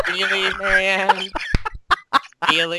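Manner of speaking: disapproving friend voice. Retold or imitated. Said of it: "that's the disapproving Julia voice".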